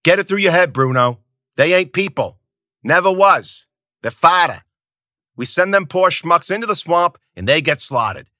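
loud, high furious rant; angry shouting. Acted. Zoot berating Bruno about the fodder, loud high yell. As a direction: hammer every word at him.

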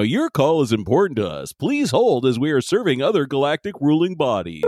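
lightly voiced automated phone menu. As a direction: read it like a hold recording. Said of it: "like, the phone tree".

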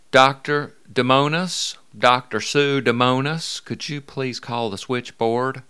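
lightly imitated sweet Southern PA voice; mock hospital loudspeaker page, slow; a hint of a Southern belle paging a doctor; Southern belle announcer. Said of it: "she just sounded like a Southern belle".

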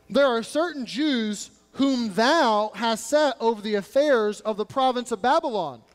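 sarcastic reading. Shown as a demonstration. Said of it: "ripe almost with sarcasm".

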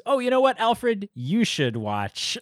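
hams up a breezy wizard handing off the job, loud and high; mock Gandalf. Podcaster mocks Gandalf dumping Bilbo on Alfred, high hammed-up voice. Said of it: "so he goes".

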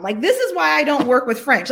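laughing. Retold or imitated. Quoting Adrian while laughing.

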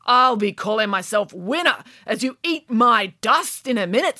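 muffled from inside a cannon. Acted. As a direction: speak as if inside a barrel. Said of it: "in a muffled voice".

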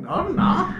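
very high, loud "no, I'm not"; squeaky denial. Retold or imitated. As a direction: squeak it out like a caught kid.

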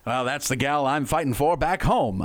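lightly voiced war-movie soldier; hint of an old-movie GI pining for home. Soldier showing off his sweetheart's picture, lightly put-on movie voice. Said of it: "I don't know why I did that voice".

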